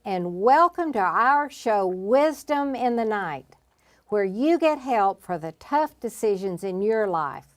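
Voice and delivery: show host introduction. Acted. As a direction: welcome the audience and present tonight's guest.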